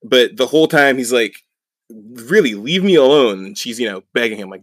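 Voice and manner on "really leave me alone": raised-voice imitation of annoyance; retold exasperated protest. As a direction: act out fed-up pleading with an attacker. Acted exasperated protest mid-fight.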